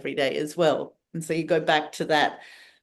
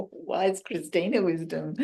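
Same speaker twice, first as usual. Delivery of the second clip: laughing; 4 dB quieter than usual. Real, not acted. Repeating host's phrase with a laugh.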